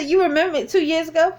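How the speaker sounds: high, quick incredulous question; retold amazement. Cashier recognised from two years ago, retold amazement. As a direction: re-enact disbelief in a fast, high voice. Disbelief at being remembered.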